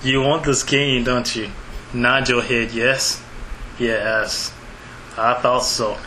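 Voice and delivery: low, menacing villain voice; sinister villain. Acted. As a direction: purr like a gloating villain. Villain voice of Square.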